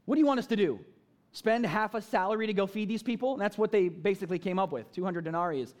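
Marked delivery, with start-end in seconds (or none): 0.0-3.3 a slight ring of sarcasm in the questions. Acted. Disciples answering Jesus's command, slightly sarcastic. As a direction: toss it back as a mildly sarcastic challenge. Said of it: "a slight ring of sarcasm to it".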